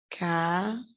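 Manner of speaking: "Cafuné" split into ca, fu, né with long pauses; syllable by syllable. Shown as a demonstration. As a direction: say "Cafuné" in three isolated pieces. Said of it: "vamos separar aqui".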